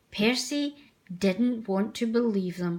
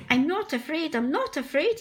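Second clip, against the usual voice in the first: higher, nervous self-talk; self-reassuring; 6 semitones higher than usual. Acted. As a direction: convince yourself, a little shaky. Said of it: "he said to himself".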